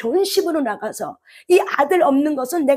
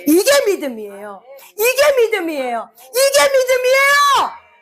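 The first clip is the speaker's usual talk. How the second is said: rising preaching cry; 11 semitones higher than usual. Real, not acted. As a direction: preach it up to a tearful peak. Preacher climax, repeated line rising.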